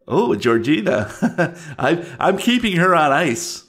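creepy voice rising high, with a chuckle; taunting old creature. Acted. Creature taunts a girl about her sister, gleeful and high. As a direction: gloat with a little villain laugh.

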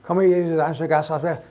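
mock prayer mumbled into a slur; garbled, throwaway imitation of praying; quick, careless prayer. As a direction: rattle off a grace without meaning it. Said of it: "not like a quick prayer".

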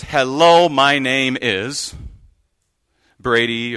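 cheery name-tag greeting; name tag read. Shown as a demonstration. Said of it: "and it says".

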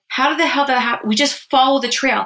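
retold disbelief, insisting on the facts; incrédule. Retelling her baffled outburst on trail.

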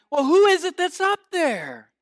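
high, loud yell up to someone; yelling back. Acted. Hanging man to the unseen voice above, yelling back. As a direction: holler the question upward. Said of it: "And the man yelled back".

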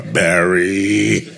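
mother's call of "Barry" with a laugh in it. Retold or imitated. Mother calls her son Barry, half laughing. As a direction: laugh through the name like a fond mother. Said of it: "like when your mother calls you".

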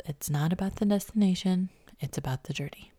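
lightly husky, fading whisper; a hint of Brooke Davis. Real, not acted. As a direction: let it fall to a raspy hush. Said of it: "I remind myself of Brooke Davis... that whisper, raspy voice".

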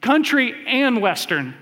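deadpan it like a small-town barkeep; mock bartender. Bartender answering Elwood at the bar, a lightly voiced slow reply. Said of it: "And she goes".

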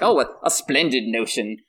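put-on squeaky eager kid voice; squeaky Goonies voice. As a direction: chirp it like a wide-eyed Goonies kid. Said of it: "like a squeaky Goonies voice when I'm doing Bran's thoughts".

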